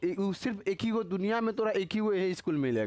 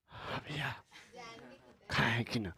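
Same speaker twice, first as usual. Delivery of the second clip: put-on soft, much quieter polite girl asking; polite girl's voice; 6 semitones lower, 8 dB quieter, slower than usual. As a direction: imitate a shy girl asking gently. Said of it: "लड़कियाँ है कैसे बोलेगा". (लड़की की नकल में धीमी, विनम्र आवाज़)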